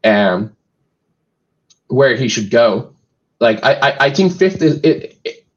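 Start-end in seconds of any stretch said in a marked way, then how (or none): 3.4-5.5 halting, repeated little words; stuttering. Real, not acted. Co-host unsure where the player should go, stuttering. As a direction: stall and restart while unsure of the answer. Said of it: "I'm stuttering".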